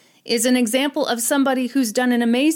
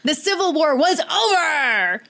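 excited; 5 semitones higher than usual. Acted. Triumphant announcement.

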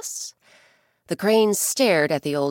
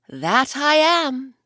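slow, louder stately god; proud god; 7 semitones higher, 7 dB louder, slower than usual. Acted. Ukko revealing himself to the bear, slow and grand. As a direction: declare it with majesty. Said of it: "Ukko replied".

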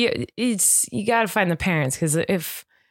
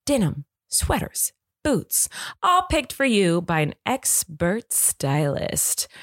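light, upbeat podcast ad read; sponsor ad read. Acted. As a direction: sell it like a friendly host. Host reads sponsor ad.

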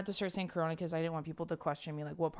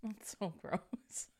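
very slow, softer, drawn-out disgust; 3 semitones higher, 7 dB quieter, much slower than usual. Real, not acted. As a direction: let the disgust drag on every word. Disgusted at rotting in pajamas.

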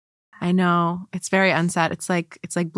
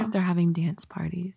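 whispering; 6 dB quieter than usual. Real, not acted. Joking whisper about the neighbours.

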